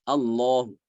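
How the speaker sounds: Allahu with a quick, faint final u; raum ending. Shown as a demonstration. Teacher demonstrating the pause reading. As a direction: shorten the u of Allahu to a whisper. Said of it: "Dibacanya ketika wakaf".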